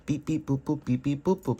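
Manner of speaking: mock robot beep-boop; lightly imitated robot noises in a quick chant. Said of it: "I'm a robot".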